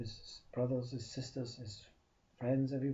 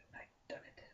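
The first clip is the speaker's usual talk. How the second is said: hushed whisper; 15 dB quieter than usual. Acted. Man confides to tree.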